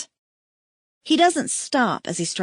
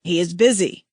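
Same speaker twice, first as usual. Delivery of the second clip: amused; 3 semitones lower, 4 dB louder than usual. A narrator's reading. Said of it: "Rokan says with amusement".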